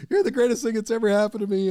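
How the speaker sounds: high squealing fan worship; gushing fangirl. Retold or imitated. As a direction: gush like a starstruck superfan. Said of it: "I turned into a, a Swiftie".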